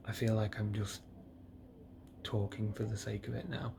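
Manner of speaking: woozy and drowsy from painkillers; drugged up after surgery. Real, not acted. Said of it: "I'm really drugged up".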